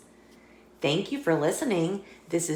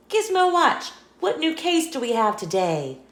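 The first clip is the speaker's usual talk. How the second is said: higher, eager cat agent; a lightly voiced eager cat agent; cat detective voice; 5 semitones higher than usual. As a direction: call up your gadget like a keen young detective. Meow calls to his watch.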